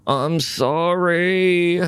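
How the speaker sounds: high, slow pleading; storyteller voicing a begging spider; pleading Anansi. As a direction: beg forgiveness, small voice. Trapped Anansi begs.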